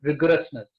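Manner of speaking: "Rigorousness" as a firm one-word sentence; stress on Rigorousness. Real, not acted. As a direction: land "Rigorousness" alone, with a falling end. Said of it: "I stress this word again and again".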